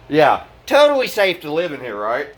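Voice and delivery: mock-bright sarcasm, dipping on the tag question; sarcastic. Real, not acted. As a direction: pretend to agree it's safe. Mocks landlord's safety claim.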